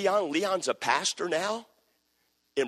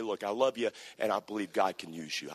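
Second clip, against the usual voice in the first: gentle reassurance; 7 semitones lower, 5 dB quieter than usual. Retold or imitated. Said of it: "hear somebody say".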